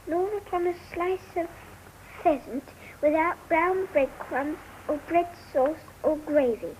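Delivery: careful recitation with small pauses; reading aloud. Acted. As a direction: read it out phrase by phrase from a book. Child reads book aloud.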